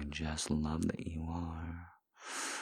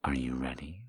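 whisper; 2 semitones lower, faster than usual. Acted. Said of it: "whispered take".

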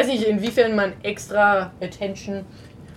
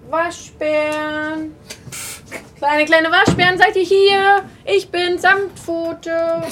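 calling out; 4 semitones higher, slower than usual. Acted. Calling for raccoons in dark.

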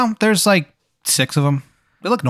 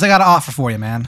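bad Maryland accent; faster than usual. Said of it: "really bad Maryland accent".

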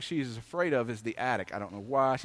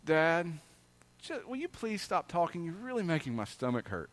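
put-on softer, gentle little girl asking; kindly child's plea; 6 dB quieter than usual. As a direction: plead softly as the worried daughter. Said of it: "she says kindly".

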